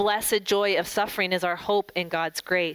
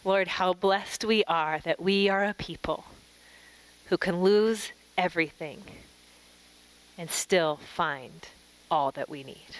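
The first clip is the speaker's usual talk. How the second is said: prayer. Real, not acted. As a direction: pray gently, with long pauses between phrases. Leads a closing prayer.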